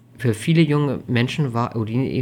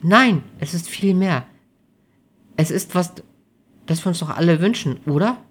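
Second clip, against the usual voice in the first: put-on higher, tentative young woman; mildly hesitant, raised pitch; unsure; 6 semitones higher, 4 dB louder than usual. A narrator's reading. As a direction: feel for the words, seeking agreement. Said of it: "fragte Amelie unsicher nach".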